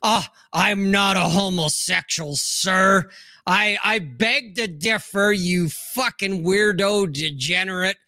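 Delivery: mock-indignant, pompous protest; hammed-up affronted objection; bent out of shape. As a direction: imitate someone taking offence, overly formal. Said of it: "don't get bent out of shape".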